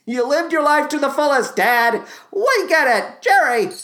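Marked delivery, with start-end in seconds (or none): none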